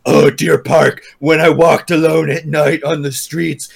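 mock poet. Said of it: "edgy fucking poet piece of shit to be like".

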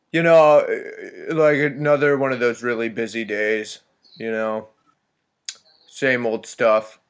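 a hint of a buddy's weary drone; Jewish Denberg voice. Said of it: "uh, Jewish Denberg voice".

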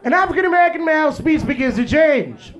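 stuffy white narrator studying wildlife; white documentary narrator. Retold or imitated. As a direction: narrate like a nature show host. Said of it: "The white guy be like".

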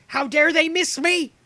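high, slow, loud mock outrage; mock offended voice. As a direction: play the wounded diva. Mock voicing Ian, high.

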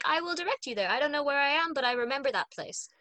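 a hint of cheery, bubbly helpfulness, starting high; bubbly, friendly helper. Friendly sorcerer giving a stranger directions, lightly bubbly. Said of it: "he's very bubbly and friendly".

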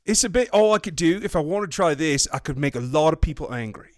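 terrible mock-British accent; bad British accent attempt. Shown as a demonstration. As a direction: attempt Geordie and land on Cockney.

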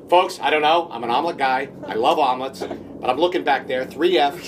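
lightly imitated actor addressing the whole cabin; playing to the crowd, mock-serious deliberation; Vince Vaughn. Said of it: "It's that Vince, Vince Vaughn voice".

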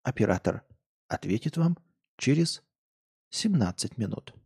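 polite recorded hold message; sing-song operator announcement; customer service voice. Pretend. Mock call-center hold message.

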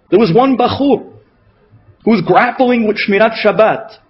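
ordinary talk, nothing marked

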